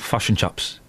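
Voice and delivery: put-on lightly done Kiwi accent; broad Kiwi accent. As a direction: say fush and chops the Kiwi way. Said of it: "is the Kiwi".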